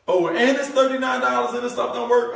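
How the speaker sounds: mock alarm. Mock prospect objection peak.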